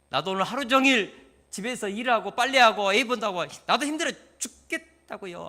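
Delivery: loud, high irritated complaint; irritated retort. Retold or imitated. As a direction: snap back at a tired husband. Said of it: "막 짜증내고". (지친 남편에게 짜증 내며 크게 쏘아붙이듯)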